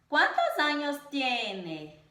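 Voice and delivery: slow, deliberate question with the first syllables stressed in "¿Cuántos años tiene?"; very slow classroom question demo; question intonation. Shown as a demonstration. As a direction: stretch out "Cuántos" as a teaching example. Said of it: "nós devemos entonar da seguinte maneira".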